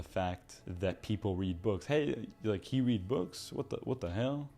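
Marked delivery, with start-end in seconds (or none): 1.9-4.5 put-on Southern accent. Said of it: "That sounded like a Southern accent".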